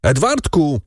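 high, frantic calling of a name; frantic shouting. A narrator's reading. Father runs out looking for his son, shouting. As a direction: call out for your child in alarm. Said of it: "krzycząc".

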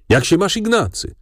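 high-pitched, exclaimed greeting; narrated cry of greeting; hearty call. A narrator's reading. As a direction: call out to an old friend, voice lifted. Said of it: "zawołał, padając mi w objęcia".

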